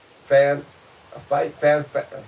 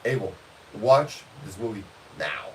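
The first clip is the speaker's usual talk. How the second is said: adamant demand, imitated; 4 semitones lower than usual. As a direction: mimic an insistent friend, word by word. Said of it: "Why were you so adamant about".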